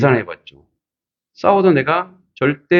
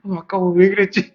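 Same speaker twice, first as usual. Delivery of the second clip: inward regret; 8 semitones higher than usual. Retold or imitated. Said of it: "아, 속으로".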